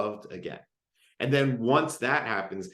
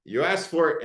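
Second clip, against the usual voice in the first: annoyed; 3 semitones higher than usual. Retold or imitated. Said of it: "I am annoyed, I am frustrated".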